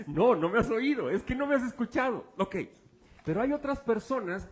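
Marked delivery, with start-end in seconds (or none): 0.1-2.3 talking through laughter; laughing. Real, not acted. Preacher laughing while correcting the congregation. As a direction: chuckle the correction out.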